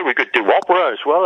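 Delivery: tossed off in a hammed-up high operatic tone; mock high voice. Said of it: "You can do the high voice".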